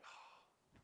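half-breathed, irritated governor; mildly voiced annoyed Roman governor; imagined Pilate. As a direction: brush off the non-answer, exasperated. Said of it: "you can imagine Pilate going".

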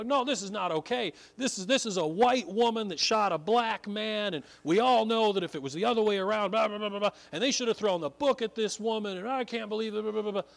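preacher mocking the world's outcry at the verdict, mock indignant; mock outrage. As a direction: parody the outraged crowd's rant. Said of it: "the world lost its mind".

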